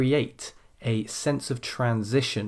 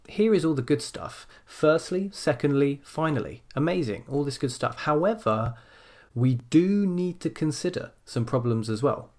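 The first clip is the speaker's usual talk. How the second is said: higher, bouncy, listing the good points with gusto; enthusiastic emphatic read-aloud; 3 semitones higher than usual. Shown as a demonstration. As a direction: sell the good stuff, then land the contrast. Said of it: "You can imagine saying it".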